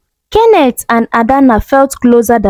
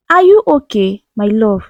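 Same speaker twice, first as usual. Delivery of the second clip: gentle. Acted. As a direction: ask it tenderly, easing off. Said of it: "Kenneth asked gently".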